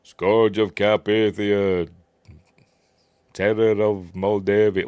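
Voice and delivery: slow, booming villain announcement; hammed-up Vigo the Carpathian; lightly voiced grand villain title; Vigo impression. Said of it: "Vigo the Carpathian".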